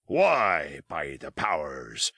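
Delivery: slow, low sailor's oath; Long John crying out. Acted. Sea cook protesting the powder change, low slow oath. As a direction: drag out the old seaman's oath. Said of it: "cried Long John".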